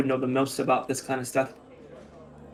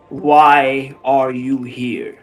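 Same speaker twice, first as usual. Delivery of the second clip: stern Inquisitor; 7 dB louder, much slower than usual. Acted. Inquisitor demands slowly.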